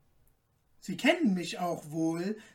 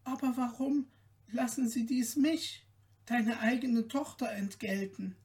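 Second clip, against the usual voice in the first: tearful plea; 4 semitones higher than usual. Acted. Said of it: "weinte Märchen".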